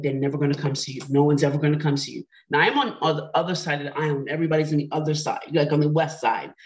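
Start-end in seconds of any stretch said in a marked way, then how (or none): 0.0-2.2 a quick, hurried run of self-doubt, lightly voiced; negative inner voice. Alone in her new apartment, her mind tells her nobody will visit, quick nagging inner voice. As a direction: rattle it off like a nagging thought. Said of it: "your mind starts talking".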